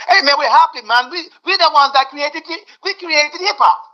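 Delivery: high, animated mock Jamaican accent. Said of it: "how many people in Jamaica".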